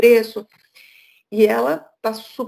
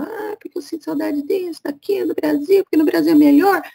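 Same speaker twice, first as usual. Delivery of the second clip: mock whiny complaint, higher and louder by the end; imitando reclamação; 8 semitones higher, 3 dB louder than usual. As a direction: mimic a homesick Brazilian moaning. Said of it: "Eu vejo alguns brasileiros reclamando". (imitação chorosa de brasileiro reclamando)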